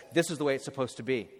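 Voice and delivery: hurried, brushing it off; quick dismissive read. Shown as a demonstration. Preacher quoting what nobody says at a tomb, quick and flat. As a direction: rattle off the false comfort quickly. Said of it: "No one stands over a tomb and says".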